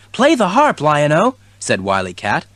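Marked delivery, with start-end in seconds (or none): 0.1-1.3 kitten voice. A narrator's reading. Kitten voice in story.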